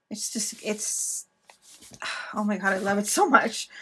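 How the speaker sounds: whispered with overflowing love; gushing whisper. Real, not acted. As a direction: breathe it out in a hush. Hushed gush over the journal.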